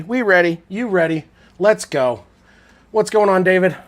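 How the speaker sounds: loud, high hype-up greeting; hype shout. Real, not acted. Streamer hyping chat at kickoff, loud and high. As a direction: pump up the stream.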